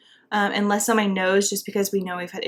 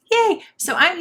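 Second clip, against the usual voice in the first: mock cheer; 10 semitones higher, 4 dB louder than usual. Real, not acted. Sarcastic cheer about pregnancy news.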